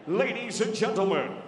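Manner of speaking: rising, slow, stretched shout; fighter name call. Acted. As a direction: build the name to a huge peak. Announcer calls fighter's name.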